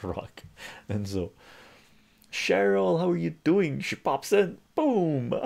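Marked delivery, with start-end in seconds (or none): 2.3-5.3 loud, high-pitched hello; excited greeting. Real, not acted. Streamer greeting Cheryl as she pops in, loud and excited. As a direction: call it out big and high, like a hype announcement.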